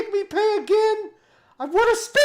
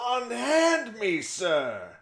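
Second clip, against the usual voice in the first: lower, indignant mock protest; indignant toy; 11 semitones lower, 7 dB quieter, much slower than usual. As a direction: play the offended toy, lightly voiced. Toy character protests pickup.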